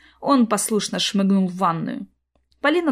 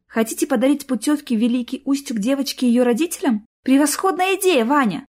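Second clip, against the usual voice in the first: faked delight; 5 semitones higher than usual. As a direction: gush over the idea falsely. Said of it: "удалось изобразить восторг".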